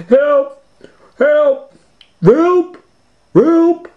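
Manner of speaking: high, loud cries for help; high desperate yells; yelling for help. Acted. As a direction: shout it out the window. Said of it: "yelled Scooby".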